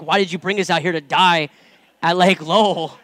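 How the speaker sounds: kids' whiny complaint retold through a laugh; laughing mock complaint. Preacher laughingly quotes kids calling her Moses, mock whine. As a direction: laugh while quoting the kids' grumbling. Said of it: "calling me Moses".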